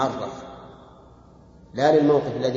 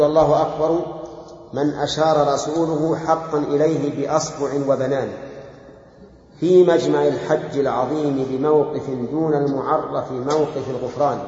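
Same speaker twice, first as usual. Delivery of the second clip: slow, measured poem reading; verse recitation; slower than usual. Acted. Teacher reads the poem to his students, slow verse recitation. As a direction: recite the verses in drawn-out metre.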